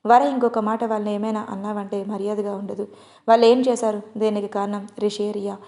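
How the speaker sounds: ordinary delivery, nothing marked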